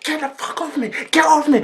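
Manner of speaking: high-pitched imitation of fighting someone off; angry yell. Cousin fighting off auntie's grip, angry yell. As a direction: yell it up high, shove them away.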